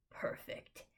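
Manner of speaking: growling. Acted. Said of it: "he growls".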